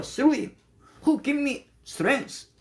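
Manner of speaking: a hint of a child chiming in; lightly voiced child reply. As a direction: answer back like the little granddaughter. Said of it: "그럼 걔가".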